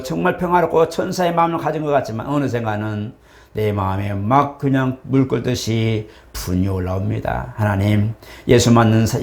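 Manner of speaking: earnest pastoral prayer, measured; closing prayer. Acted. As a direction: pray over the congregation earnestly.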